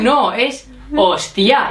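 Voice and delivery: slowly spelling out "hostia" with the final A lifted; correcting the stress. Retold or imitated. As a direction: correct him, drawing out "hostia" to its last A. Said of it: "digo, Gordon". (corrigiendo despacio, «hostia» con la A final marcada)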